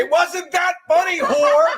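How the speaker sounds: high, loud, laughing yell; laughing shout. Real, not acted.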